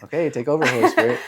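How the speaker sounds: squealing high with laughter; laughing. Retold or imitated. Playful quote, laughing.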